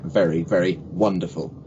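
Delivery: "very, very wonderful" with V twice, then W; distinct V and W. Shown as a demonstration. Coach shows mouth shapes, V in "very", W in "wonderful". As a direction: teeth for each "very", lips for "wonderful". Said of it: "teeth are going on your bottom lip".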